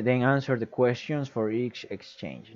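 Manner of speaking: "Then answer the questions for each exchange" read slowly, stress on "answer"; rereading the instruction slowly for students. Shown as a demonstration. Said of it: "y después dice".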